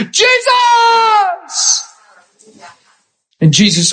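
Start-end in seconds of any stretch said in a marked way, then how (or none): 0.1-1.8 shouting out. Acted. Bartimaeus shouting above the crowd to Jesus, crying out. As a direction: throw the name over the noise. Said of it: "He shouts out above all that".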